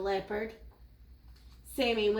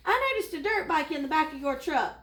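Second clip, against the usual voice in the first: high, mildly shouted gazelle plea; urgent shouting; 5 semitones higher, 4 dB louder, faster than usual. Acted. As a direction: push it out urgently in a raised pitch. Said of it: "the gazelle shouted".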